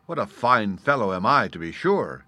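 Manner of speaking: pleased with yourself, lightly boastful; proud exclamation. Acted. Gnat pluming his wings after victory, proud. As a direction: admire yourself out loud. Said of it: "exclaimed the gnat as he proudly plumed".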